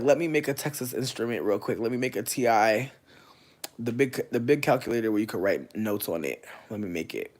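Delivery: loud, hammed-up self-quote; mock calculating. Joking about doing math mentally, in a loud hammed-up self-quote. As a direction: loudly act out building a calculator in your mind. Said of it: "I be like".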